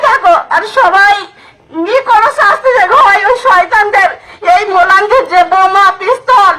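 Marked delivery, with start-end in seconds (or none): 1.9-6.5 crying shout through tears; hit hard crying out. Real, not acted. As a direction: cry out for justice, sobbing. Grieving mother demands punishment, crying. (কাঁদতে কাঁদতে চিৎকার)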